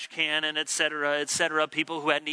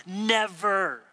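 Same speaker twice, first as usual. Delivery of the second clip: mock accusing; much slower than usual. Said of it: "We use words like".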